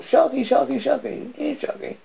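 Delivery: high, loud call into the dark woods; calling a lost dog with all her voice; calling out loudly. Acted. Girl calling her missing dog in the woods, high loud call. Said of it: "With all her voice".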